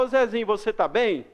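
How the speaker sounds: easy friendly hello; casual to a friend. Shown as a demonstration. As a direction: chat to your buddy. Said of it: "eu vou falar". (saudação informal ao amigo)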